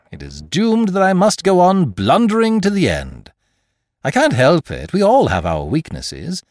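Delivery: lightly voiced playful rogue, mocking; a hint of Lupin's cheeky banter; teasing gentleman thief. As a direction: tease the boy fondly. Lupin musing and bragging.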